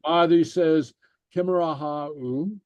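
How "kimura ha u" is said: measured, word by word for learners; slow read-along. Shown as a demonstration. Teacher reads for learners to repeat, slowly. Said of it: "I'll read it slowly".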